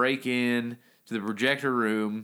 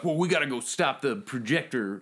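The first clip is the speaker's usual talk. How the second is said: pimp voice; 2 semitones higher than usual. Retold or imitated. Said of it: "Your pimp voice is amazing".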